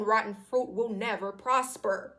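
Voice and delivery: slow preaching. Real, not acted. Slow sermon-like conclusion.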